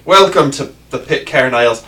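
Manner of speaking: Scottish pirate voice, lightly done; hint of a Scottish pirate; Scottish pirate accent. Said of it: "that's the accent you're going with".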